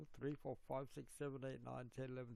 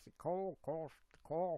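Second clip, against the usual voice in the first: put-on Finnish accent; 3 semitones higher, 5 dB louder than usual. Retelling how a stepfather says Gold Coast: imitating stepfather's Finnish accent. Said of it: "your Minnesota accent is a mix of Finnish, which my stepfather speaks".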